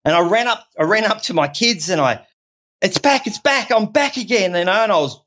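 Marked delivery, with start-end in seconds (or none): 2.8-4.5 high, bursting with joy; joyful relief. Retold or imitated. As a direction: shout it out like you just got yourself back. Retelling joyful relief to kids.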